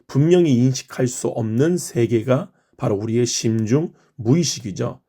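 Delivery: normal talking voice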